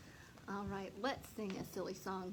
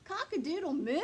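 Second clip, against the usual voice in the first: louder, slowed mooing attempt; a cow getting the words wrong, loudly; cow's clumsy crow; 7 semitones higher, 8 dB louder than usual. Cow nearly gets it.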